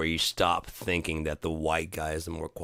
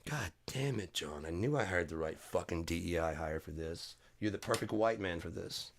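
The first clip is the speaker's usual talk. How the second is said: softer, smug mock praise; sarcastic boss; 6 dB quieter than usual. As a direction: praise him with a sly sneer.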